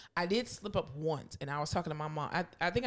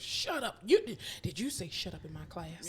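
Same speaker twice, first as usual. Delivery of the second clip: scandalized teacher. Retold or imitated. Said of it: "those are, like, curse words to teachers".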